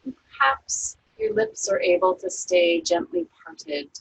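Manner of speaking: calm, unhurried body-scan voice; guided meditation. Acted. Yoga teacher guiding students through a resting body scan, calm meditation voice.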